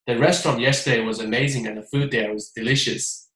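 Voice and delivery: flat read-aloud with no feeling; just read the words out evenly; plain dull recitation. Shown as a demonstration. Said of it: "很平淡".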